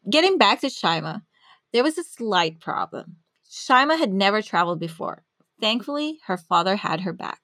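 measured, polished presenter read; scripted podcast narration. Acted. Host introducing a scientist to listeners, scripted narration.

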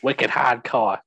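hammed-up New England accent with dropped R's; bad New England accent. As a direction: fake a New Englander, badly. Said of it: "what's a New England accent?".

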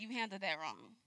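soft, quiet rebuke; inner voice. Retold or imitated. God quietly telling her she handled it wrong. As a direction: hush it like a voice inside.

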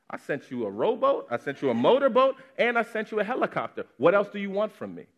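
high, loud, fed-up reply; God fed up, listing every rescue he sent; exasperated God. Acted. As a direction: list the rescues with rising exasperation. God answers the drowning man.

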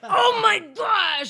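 slow, loud and high; shocked shout. Real, not acted. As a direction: drag it out in shock. Shocked outburst at joke.

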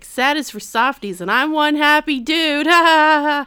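high, loud, mock-happy cartoon boast; hammed-up happy dude, stretched out; Genki. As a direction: build from chirpy boast into forced loud laughter. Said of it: "He's like".

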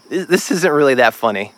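laughing. Acted. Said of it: "before he lost himself in another wave of laughter".

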